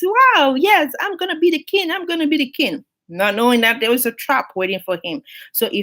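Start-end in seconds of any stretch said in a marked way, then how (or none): 0.0-2.8 higher, thrilled cry of wow then the king chant; giddy triumph. Acted. Elephant marching to palace, higher gleeful excitement. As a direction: crow it like the crown is yours.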